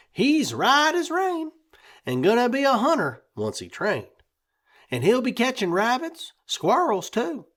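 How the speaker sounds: put-on high, quick boyish bragging; excited boy. A narrator's reading. Young boy boasting to his folks about his new puppy, high and excited. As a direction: dream out loud like a proud kid. Clancy brags about dog.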